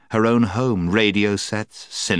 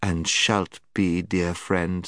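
soothing; slower than usual. Acted. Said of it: "in a soothing voice".

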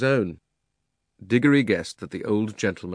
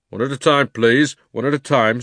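louder plea for order; calm the shouting men; flustered policeman; 4 semitones higher, 6 dB louder than usual. Acted. Policeman voiced.

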